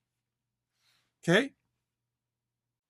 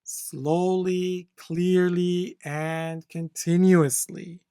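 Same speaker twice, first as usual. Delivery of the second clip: slowly and clearly; 4 dB louder, much slower than usual. Shown as a demonstration. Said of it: "Flow and intonation".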